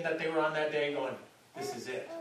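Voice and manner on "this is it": breathless hushed thrill; awed whisper. Pretend. Disciples in the Palm Sunday crowd, hushed awed whisper. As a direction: whisper it like the big moment arrived.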